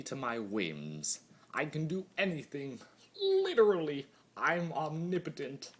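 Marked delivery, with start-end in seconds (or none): 1.5-5.7 gleeful boast. A narrator's reading. Boasting of godlike power.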